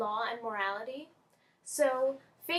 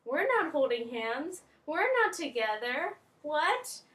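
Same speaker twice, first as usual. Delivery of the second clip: higher-rising indignant denial; mock protest; 4 semitones higher, 4 dB louder than usual. Two students deny being a couple, mock protest. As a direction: protest as if wrongly paired up.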